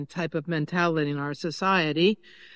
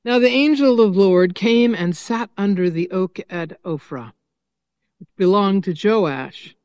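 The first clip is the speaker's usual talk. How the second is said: forceful, louder scripture read like a fiery preacher; fiery prophet reading; 4 dB louder than usual. Acted. Pastor reading the prophet Amos to the congregation, fiery and forceful. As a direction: declaim Amos with fire and weight. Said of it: "let's hear the fiery Amos".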